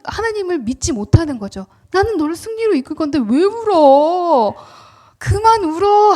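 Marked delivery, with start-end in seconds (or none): 1.9-6.1 higher and louder, a firm fatherly rebuke; God's rebuke. Acted. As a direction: scold the weeping ones like God lifting them up. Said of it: "하는 거예요". (꾸짖듯 높고 큰 하나님의 음성)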